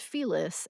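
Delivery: Feliz as FEE-liss; rhyming with bee kiss. Shown as a demonstration. Narrator explains the local habit, Feliz said to rhyme with bee kiss. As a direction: stress the first syllable of Feliz, short i in the second. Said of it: "as rhyming with bee kiss".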